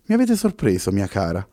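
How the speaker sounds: radiant, pleasantly surprised praise; beaming exclamation. Acted. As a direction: exclaim with glowing pleasure, a touch hammed-up. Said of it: "esclamò raggiante Pessoa".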